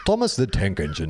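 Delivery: badly faked Liverpudlian accent; attempted Liverpool accent. Shown as a demonstration. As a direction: test out a mock Liverpool accent. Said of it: "How do you do Liverpool?".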